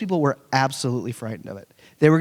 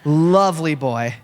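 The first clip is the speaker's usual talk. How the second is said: fond repeat; slower than usual. Real, not acted. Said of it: "I just have to say this up front".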